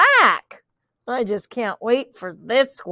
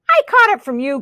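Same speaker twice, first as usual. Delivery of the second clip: crowing accusation; 3 semitones higher, 3 dB louder, faster than usual. Acted. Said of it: "crowed the cat".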